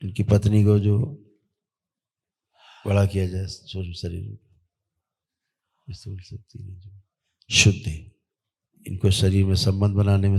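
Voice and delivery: steady, level ritual decree; ritual incantation. Real, not acted. Healer commanding spirits on a patient's behalf, intoned ritual. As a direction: intone evenly like a healing command.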